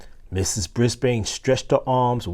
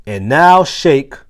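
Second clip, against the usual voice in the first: playful call; 4 semitones higher, 7 dB louder, slower than usual. Acted. Teacher leads shaking.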